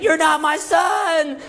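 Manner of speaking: high, drawn-out mock scream; screaming mom. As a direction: imitate a mother freaking out. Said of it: "starts screaming and saying".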